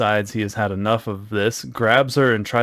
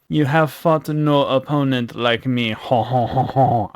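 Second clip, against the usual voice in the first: slow, lightly French villain with a mock laugh; hint of a French brute taunting; French accent; 3 semitones higher than usual. Undead Steve taunting Zuna, in a light French accent. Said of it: "I don't know why I made him French".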